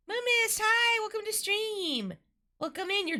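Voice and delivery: very high, excited squeal; squealed greeting. Real, not acted. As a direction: squeal a delighted welcome. Greeting a viewer who arrives.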